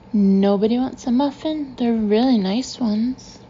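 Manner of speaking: forced casual offer, slowing at the end; trying to sound relaxed. Acted. Boss offering muffins to ignoring staff, trying to sound relaxed. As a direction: act relaxed while coaxing them. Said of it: "I try to sound relaxed".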